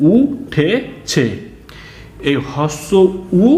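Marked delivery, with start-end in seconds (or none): 0.1-1.2 teacher's answer. Shown as a demonstration. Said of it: "কি হলো?".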